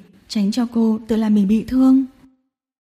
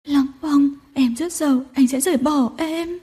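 cling and cry; weeping; 3 semitones higher than usual. Acted. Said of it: "khóc lóc". (khóc lóc van nài)

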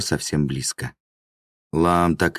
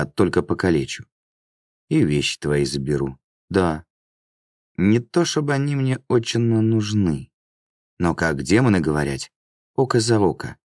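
a hint of a swaggering demon, pitch lifting on some phrases; lightly voiced taunting demon. Demon threatens the man he caught, lightly taunting. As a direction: lightly play a menacing demon toying with a victim.

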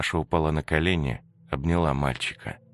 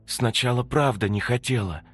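higher, halting guilty voice; ghost's confession; 9 semitones higher, 3 dB louder than usual. Acted. The ghost Antonina confesses why she never opened the door, halting and guilty.

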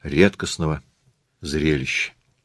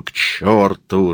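slow, growled curse; much slower than usual. Acted. Murat dismisses the excuse, growling. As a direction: growl it in exasperation. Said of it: "рычит Мурат".

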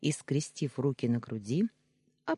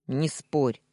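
firm, louder clipped order; curt cut-off; 5 dB louder than usual. Acted. Danya overruling Yulia's protest, curt and louder. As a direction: shut her objection down hard. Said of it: "жёстко отрезал он".

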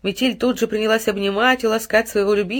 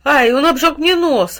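loud, slow, higher cry; boy's loud, drawn-out complaint of pain; exclaimed; 8 semitones higher, 7 dB louder, slower than usual. A narrator's reading. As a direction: shout out the burn. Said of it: "воскликнул".

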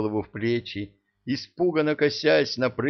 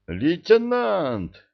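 calling out; 10 semitones higher, 3 dB louder, much slower than usual. Acted. Calling out to lieutenant.

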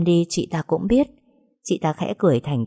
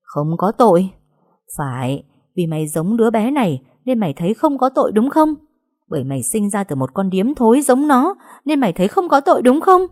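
louder, climbing to a shriek; furious scream; 4 semitones higher, 4 dB louder than usual. Acted. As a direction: scream it in her face. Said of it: "gào lên". (chị Hạnh gào lên điên cuồng)

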